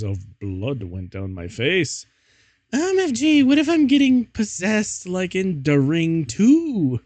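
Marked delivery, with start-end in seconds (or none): 2.7-7.0 very high, loud panic; panicked. Acted. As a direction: shriek it in hammy terror. Panicked fan-fiction heroine.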